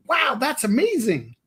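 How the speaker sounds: high sarcastic gush; mock enthusiasm. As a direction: sound amazed without meaning it. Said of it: "trying to be funny when I'm like".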